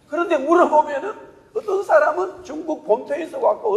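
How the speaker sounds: ordinary delivery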